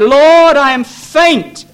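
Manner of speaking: high cry slowing into a drawn-out lament; anguished cry. Retold or imitated. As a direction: call to God as the fainting psalmist. David's faint cry to God.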